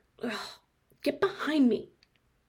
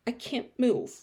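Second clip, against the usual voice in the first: normal talking voice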